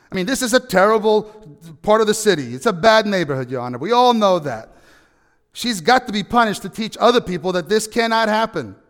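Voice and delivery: a hammed-up indignant shopkeeper; stubborn shopkeeper. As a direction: demand she be punished, pushing harder. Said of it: "the shopkeeper speaks up and he says".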